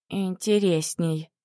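slow, savoring the word. Acted. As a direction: roll the word like a candy. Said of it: "перекатывая это слово на языке как леденец".

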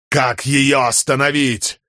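high, drawn-out demand; urgent cry. A narrator's reading. Man asks how to stop the storm, urgent cry. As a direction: cry out for an answer.

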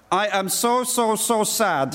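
stupid voice. Acted. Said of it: "read in a stupid voice".

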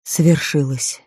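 slow, soft sorrowful repeat; repeated softly. A narrator's reading. Melchior repeats it to Barabbas, slow and soft. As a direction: say it again, gently and slowly. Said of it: "Мельхиор повторил".

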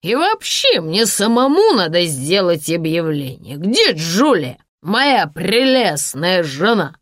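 tipsy, slow and loud; swaying drunk man gloating. Acted. Drunk Sasha voice.

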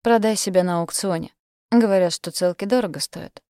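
mock her cruelly. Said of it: "произнёс он с издёвкой".

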